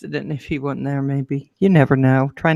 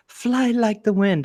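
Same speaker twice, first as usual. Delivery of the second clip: mock encouragement; 5 semitones higher, slower than usual. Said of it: "He goes".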